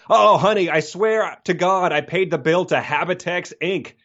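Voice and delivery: a hammed-up husband swearing he paid; pleading husband. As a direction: swear it to her, begging. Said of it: "and he says".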